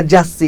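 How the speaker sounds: "যাচ্ছি" said as jassi; Bangladeshi s for ছ. Shown as a demonstration. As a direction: say "যাচ্ছি" with an s sound in place of chh. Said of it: "but আমরা বলি". ("যাচ্ছি"-তে চ্ছ-কে স-এর মতো উচ্চারণ)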